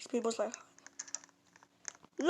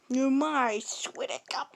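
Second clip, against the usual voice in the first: whisper; 7 dB quieter than usual. Real, not acted. Unvoiced whisper.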